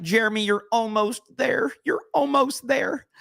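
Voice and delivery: high, coaxing mock voice; sing-song it like a patronising cheerleader; mocking almost-there crowd. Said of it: "they're like, the almost there crowd".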